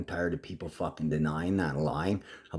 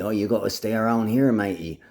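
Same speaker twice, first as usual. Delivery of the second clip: imitated Aussie; 2 semitones higher, 4 dB louder than usual. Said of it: "Well, they told me".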